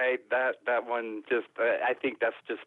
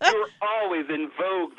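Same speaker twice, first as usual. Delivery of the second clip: laughing; 5 semitones higher, 4 dB louder than usual. Real, not acted. Praising the haiku master, laughing.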